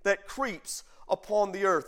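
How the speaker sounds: measured pulpit reading of scripture; preacher reading the verses aloud. Acted. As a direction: read it out like holy writ. Reading Genesis aloud to congregation.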